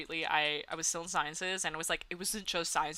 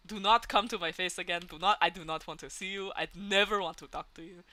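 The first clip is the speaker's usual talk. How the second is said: a hint of a bad Russian accent, mock stern parent; lightly put-on Russian accent, half-hearted; mock Russian accent barely there, parent disowning her; terrible Russian accent; 5 dB louder than usual. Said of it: "I don't know what that Russian accent was. It was terrible".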